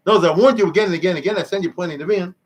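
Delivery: God losing patience with his people; scolding God. Retold or imitated. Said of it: "God says".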